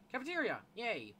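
high, loud cheer of relief; excited shout. Real, not acted. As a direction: yell it out happily. Finds the cafeteria in game.

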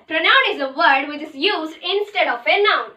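slow dictation. Shown as a demonstration. Teacher dictating the pronoun definition, very slowly. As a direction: dictate it clearly for notebooks. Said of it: "teacher dictating pronoun definition".

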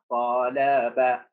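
طلب split slowly as ta, la, ba; low, very slow طلب, a gap after each syllable; word cut into syllables. Shown as a demonstration. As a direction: sound out طلب syllable by syllable for spelling. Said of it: "قطع الكلمة".

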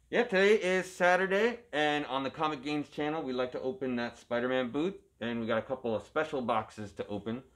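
muffled behind a mask; talking through a Halloween mask; through a face mask. Real, not acted. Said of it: "It's hard to talk with a mask on".

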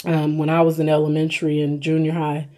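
eating a burger while talking; talking while chewing. Real, not acted. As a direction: mouth partly full of food. Seen 0: Holds burger at mouth, chewing between words throughout.

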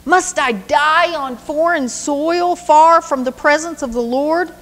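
a wronged son pleading with the king. Acted. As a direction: beg the king to see reason. David's anguished plea to Saul.

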